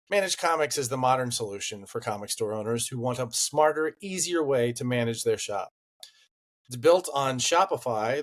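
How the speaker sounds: polished podcast ad voice, lightly sold; sponsor ad read. Acted. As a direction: read the sponsor spot like a friendly pitch. Reads sponsor ad.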